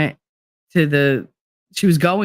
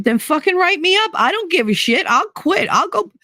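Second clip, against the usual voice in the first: retold angry outburst; 14 semitones higher than usual. Retold shouting match with principal.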